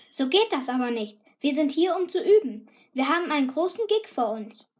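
rising into an indignant scold; scolding singer. Acted. Chiara stamps toward her, scolding.

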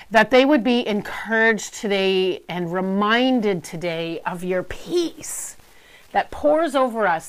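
earnest prayer voice. Acted. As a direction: pray aloud with fervour. Leads a prayer.

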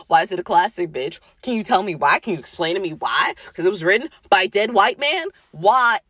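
ranting yell. Real, not acted. Podcaster ranting at classic-lit snobs, a mild real yell. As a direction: fire the questions at the snobs, voice climbing a little. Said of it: "See, now I'm yelling".

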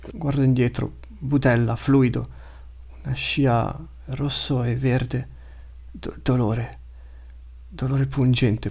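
lightly voiced wounded beast, slowing as it bleeds; a frightened creature losing strength, halting; dying beast's thoughts. The gutted pelle lama fleeing Rengar, lightly voiced fading beast thoughts.

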